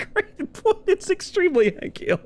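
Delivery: high nasal-free southern dad voice; Hank Hill voice. Retold or imitated. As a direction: channel a Texas dad. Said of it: "very Hank Hill".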